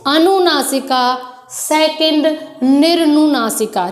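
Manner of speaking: slow, careful अनुनासिका and निर्नुनासिका; syllable-by-syllable. Shown as a demonstration. Teacher to children, naming both terms slowly. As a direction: spell each term out slowly. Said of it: "first".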